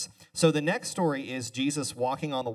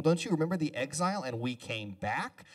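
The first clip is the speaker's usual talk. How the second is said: harping prophet; 3 semitones higher than usual. Retold or imitated. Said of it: "just harping on people".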